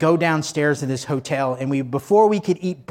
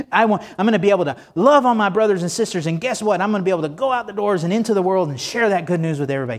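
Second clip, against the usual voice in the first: fast, eager and bubbling over; enthusiastic; 2 semitones higher than usual. Shown as a demonstration. Preacher shows the congregation the right way, enthusiastic and fast. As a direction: really sell the excitement, rushing ahead. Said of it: "Can you see the, the enthusiasm?".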